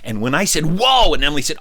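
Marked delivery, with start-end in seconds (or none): 0.8-1.1 quick high, loud whoa; brief burst of astonishment; retold kid's high exclamation; amazed.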